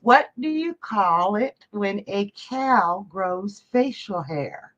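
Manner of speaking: slow joke setup. Acted. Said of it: "I'm gonna start you off".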